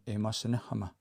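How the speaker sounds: imasinahama ending on "ma", the K almost silent; dropped final K. Shown as a demonstration. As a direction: let imasinahama stop on an open "ma". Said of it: "I almost don't hear that".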